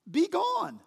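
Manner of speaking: high-pitched regal order; lofty royal command, pitched well up; kingly command. Acted. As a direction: dismiss him like a king. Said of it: "That's kingly speech, isn't it?".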